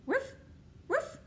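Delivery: high, playful woof; a silly wrong dog sound; dog bark. Pretend.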